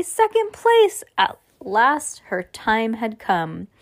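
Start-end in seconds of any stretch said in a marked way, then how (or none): 0.0-1.0 high, loud, drawn-out delight; thrilled winner's exclamation; excited triumph. A narrator's reading. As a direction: savour the prize, pitched high and slow. Judy celebrates her prize.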